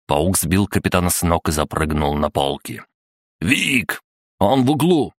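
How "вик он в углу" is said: high-pitched urgent call; warning cry. Acted. Fighter warning Vic where the robot is, shouting. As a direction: call out high to alert a comrade.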